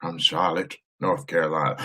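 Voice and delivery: voce regale e solenne; regal voice. Acted. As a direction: read it like a stately king. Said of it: "I'm gonna have to read this in my regal voice".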